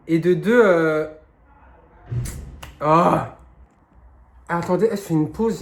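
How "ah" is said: sudden loud groan from a cramp; real cramp groan. Real, not acted. Breaking off mid-answer with a cramp, pained groan. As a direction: let out an "ah" as the cramp hits. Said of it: "j'ai une crampe".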